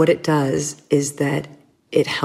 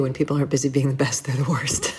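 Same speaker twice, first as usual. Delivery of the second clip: quicker, softer, dry twist on the saying; wry flipped quote; 3 dB quieter than usual. Retold or imitated. Flipping a friend's saying for the host, wry and quick. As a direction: toss off the reversed version with a wink. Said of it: "it's true the other way, too".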